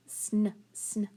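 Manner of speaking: short "sn", no following vowel; clipped-off "sn" blend as a bare sound; isolated blend. Shown as a demonstration. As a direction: say "sn" twice, cut off and separate. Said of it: "What makes that sn sound?".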